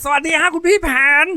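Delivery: put-on very high, loud boyish greeting; full-throated kid's hail; top-of-the-throat shout. A narrator's reading. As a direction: holler hello like an excited young boy. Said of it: "ส่งเสียงตะโกนสุดลำคอ ร้องทักบ".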